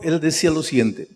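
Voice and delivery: ordinary delivery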